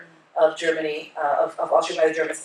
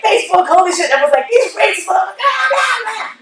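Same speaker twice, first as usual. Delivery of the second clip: high, loud mock rant; hammed-up shouted outrage, tumbling into blah-blah; retold outrage; 13 semitones higher, 7 dB louder than usual. Girlfriend retells posting the photo to Facebook, hammed-up outrage.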